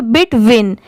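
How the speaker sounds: "बिट विन" as two joined parts, bit plus win; joined syllables. Shown as a demonstration. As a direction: blend "बिट विन" into the word between. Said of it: "इन दोनों को साथ में मिला देंगे". ("बिट विन" दोनों हिस्से मिलाकर)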